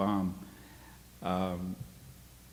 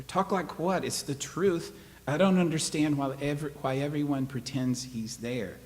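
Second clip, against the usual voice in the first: put-on upset boy arguing; 6 semitones higher than usual. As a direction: push back like a hurt kid. Boy arguing back at mother.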